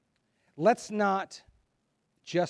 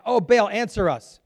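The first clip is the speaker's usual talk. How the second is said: higher, louder cry to a silent god; calling out; 6 semitones higher, 8 dB louder than usual. Acted. Prophets of Baal crying to their god, loud call. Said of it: "called upon the name of Baal".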